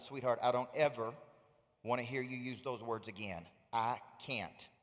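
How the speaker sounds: retold calm correction, voice dropped low; gentle firm father. Dad sitting his daughter down after tennis, gently firm.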